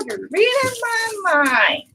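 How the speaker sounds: high, slow sing-song. Real, not acted. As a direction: stretch it out high and singing. Repeats the remark, sung out.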